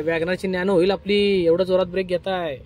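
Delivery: loud, slow, stretched-out reprimand; drawn-out chiding. Real, not acted. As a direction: drag out the words as you correct the learner loudly. Instructor scolds learner's hard braking.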